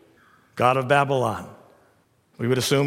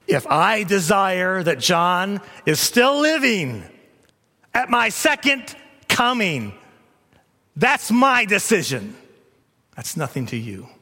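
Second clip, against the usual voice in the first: firm Jesus; slower than usual. Retold or imitated. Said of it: "Jesus says".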